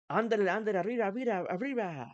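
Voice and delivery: mock cartoon cheer; Speedy Gonzalez. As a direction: hurry someone along like Speedy Gonzalez. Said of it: "Like Speedy Gonzalez".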